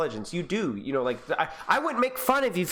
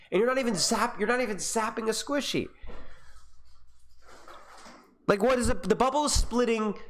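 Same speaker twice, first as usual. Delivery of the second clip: rising higher and higher in exasperation; voice creeping higher; 4 semitones higher than usual. Real, not acted. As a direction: pitch climbs as the frustration builds. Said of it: "Why does my voice get higher".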